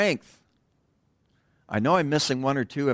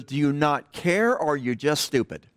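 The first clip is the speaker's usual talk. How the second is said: toned-down drill instructor yell; 2 semitones higher than usual. Retold or imitated. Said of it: "he didn't say it that way".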